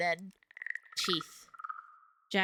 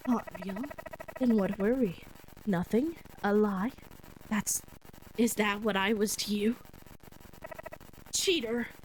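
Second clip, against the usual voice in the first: hurt ghostly accusation. Acted.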